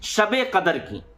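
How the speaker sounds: measured recitation with pauses between phrases; demonstrating a spoken prayer intention; niyat recitation. Shown as a demonstration. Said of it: "तो किस तरीके से जबान से नियत करेंगे".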